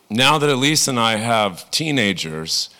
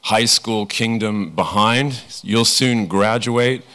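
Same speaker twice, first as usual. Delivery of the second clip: reassuring parent; slower than usual. Retold or imitated. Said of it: "We say".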